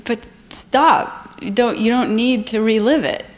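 mildly voiced teacher calling a halt; caring teacher stopping her from reliving pain; firm gentle teacher. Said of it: "she said".

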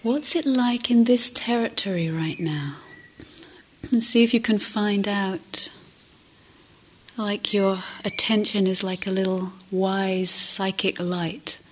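gentle meditation guidance with long pauses; guided meditation. Acted. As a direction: guide listeners gently inward, leaving space between phrases.

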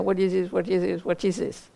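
mock mantra, run together without pauses; rote mantra repetition. Shown as a demonstration. Meditation teacher shows how not to ask it, mock mantra. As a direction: repeat it mechanically, tailing off. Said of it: "not to repeat it like a mantra".

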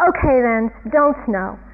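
mildly yelled, mock defiance; Calvin. Calvin telling the sky not to snow, mild defiant yell. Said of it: "And then he yells up".

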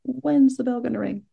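a fidgety meditator waiting it out; mock-impatient thought; impatient inner voice.

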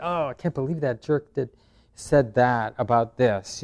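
a hint of grumbling at the jerk; annoyed inner thought. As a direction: replay the irritated thought under your breath. Annoyed thought replayed in meditation.

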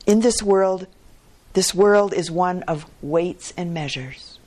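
confident. Acted. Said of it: "he added confidently".

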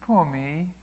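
mock self-pity, half-hearted whine; plaintive voice. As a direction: play a sulky committee member. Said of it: "and with a plaintive voice".

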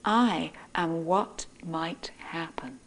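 a tiny creature revealing its secret; little bell-like voice. Acted. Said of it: "in this little clear bell-like voice".

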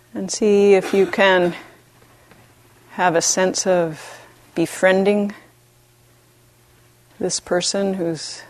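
gentle meditation guidance with long pauses; unhurried, even voice, leaving space between phrases; guided meditation. Real, not acted. Teacher guiding retreatants to befriend themselves, calm meditation voice.

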